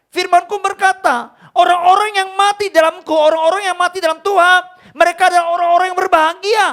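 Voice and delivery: put-on loud, high, booming voice of God speaking to his child. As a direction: thunder it out as God gently rebuking his son. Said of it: "Tuhan ngomong sama saya".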